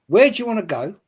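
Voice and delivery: attempted American accent. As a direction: try an American cop, badly. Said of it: "I can't do an American accent".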